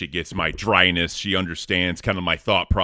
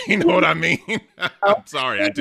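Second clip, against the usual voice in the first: laughing through the words, high; 12 semitones higher, faster than usual. Real, not acted. Co-host laughing at his own rant about beans, laughing.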